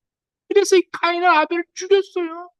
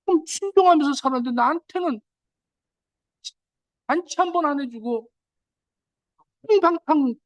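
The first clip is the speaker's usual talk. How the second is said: elder son's complaint. Retold or imitated. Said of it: "이런 화를 냈다니까요".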